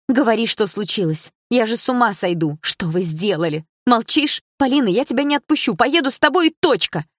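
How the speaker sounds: high, loud panicked pleading; panicked shouting. A narrator's reading. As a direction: near hysteria, begging to be told. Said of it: "У Дилары началась паника". (в панике, почти крича)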